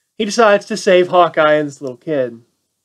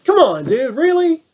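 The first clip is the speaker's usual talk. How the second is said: exasperated disbelief; 3 semitones higher than usual. Retold or imitated. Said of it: "looks at the guy like".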